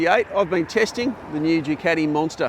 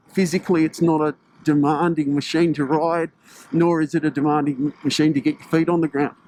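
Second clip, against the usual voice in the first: speaking through a face mask, muffled; muffled voice behind a cold-weather mask. Real, not acted. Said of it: "my apologies if I found a little bit muffled".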